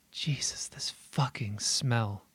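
eerie unvoiced whisper, slow; hushed whisper. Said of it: "quiet, hushed voice murmurs".

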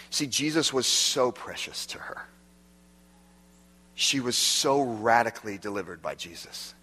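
whispered tenderly. Real, not acted. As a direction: hush down to a whisper for her. Tender aside about Mary.

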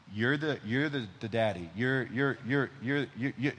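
halting toddler speech, lightly imitated; a hint of a small child repeating herself; imitating Nora. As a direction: stammer lightly like a three-year-old starting over. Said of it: "this is how Nora talks".

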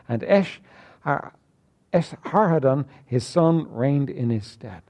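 measured King James reading; solemn scripture reading to the congregation. Acted. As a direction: read the verses out with weight. Reads scripture aloud.

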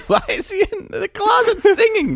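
put-on high laughing child voice; daughter voiced laughing. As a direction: imitate the puzzled girl, giggling.

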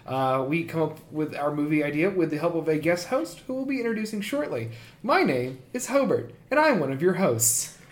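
soft, soothing podcast host intro; hushed, ASMR-like host voice; calming voice. Real, not acted. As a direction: introduce the show quietly and calmly. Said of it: "like my calming voice".

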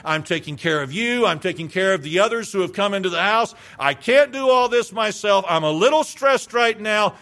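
mock frazzled complaint, pushing at the end; exasperated Martha. Martha complaining to Christ about her idle sister, mildly exasperated. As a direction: play an overworked hostess demanding help. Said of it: "Well, maybe not in that tone".

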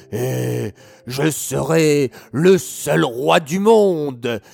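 wicked king roaring with rage; furious yelling king. Acted. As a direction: bellow orders at his army in fury.

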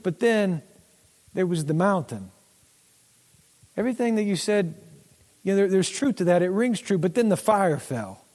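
a hint of God patiently reminding. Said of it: "It's almost like he's like".

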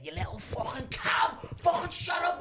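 high-pitched yelled abuse; mock shout. Neighbour's lad abusing the man's partner, mock shouting. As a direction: climb into an angry high yell.

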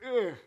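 mock groan of dread. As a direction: groan like a worried mentor. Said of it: "sighed because his apprentice said".

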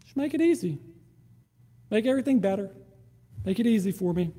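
a touch of whining; whiny quiet prayer. Retold or imitated. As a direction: mimic a lazy prayer for ease. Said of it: "we find ourselves going".

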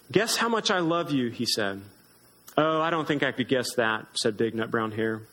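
gentle storybook read-aloud; lightly voiced storybook reading with small character voices; reading to children. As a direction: read it like a bedtime story to little ones. Reads picture book to children.

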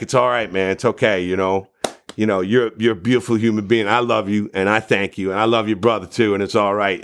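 retold tender comfort. Comforting a crying fan.

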